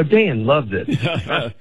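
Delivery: very slow, drawn-out mock boast; slow, self-mocking brag. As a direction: draw every word out, tongue in cheek. Mock-reporting crowd reaction to his mom.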